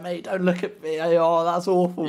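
high, loud urgent "Mate"; retold warning. Retelling talking back to the tackler, lively warning. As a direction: warn him, half laughing. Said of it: "And I was like".

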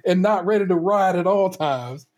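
mock pep talk. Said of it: "I'm like".

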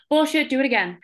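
sharp high bark then a command; mock professor dismissing her; professor's retort. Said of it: "professor cuts her off again".

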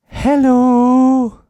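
hello boomed out, high and loud; loud mock hello. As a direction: call out hello to grab attention. Sudden loud greeting.

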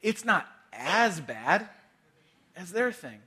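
a light, drawn-out shrug of an excuse; slow self-justifying tone, barely put on; rationalizer's excuse. Pastor voicing a churchgoer who excuses sin, mild mock rationalizing. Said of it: "here's the words of a rationalizer".

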